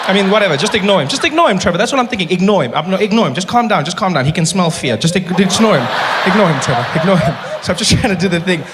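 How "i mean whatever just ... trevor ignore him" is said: loud, urgent pep talk to himself; hiss-free frantic inner voice, rising; panicky self-talk. Retold or imitated. Telling himself to ignore Malema, loud and panicky.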